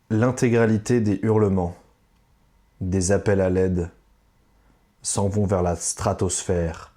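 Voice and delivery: slow, measured recitation with pauses; riddle recitation. Shown as a demonstration. Quizmaster reads reworded lyrics to contestant, reciting slowly. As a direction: read it out deliberately, phrase by phrase.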